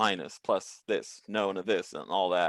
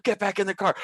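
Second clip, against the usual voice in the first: higher, barked police order; cop yelling; 10 semitones higher than usual. Retold or imitated. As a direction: repeat the order, fed up. Cops yelling at the driver.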